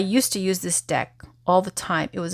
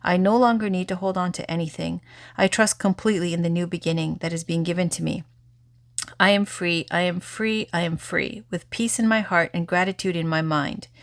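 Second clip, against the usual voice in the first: guided affirmation. Acted. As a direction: speak each release gently to yourself. Leads an affirmation.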